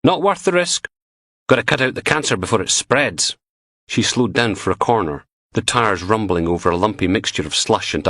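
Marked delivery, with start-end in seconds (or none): 0.0-3.4 a higher woman's voice, flat and ruthless; blunt young woman. Acted. Lay it out coldly, slowing hard on the last line. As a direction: Butler answering Logan's gangster question, ruthless, with a higher voice. Butler voice continues.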